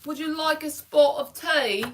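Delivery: put-on a playful British accent on a teatime line; teasing British accent; mock British accent. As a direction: put on a posh-sounding British accent for fun. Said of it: "think in a British accent".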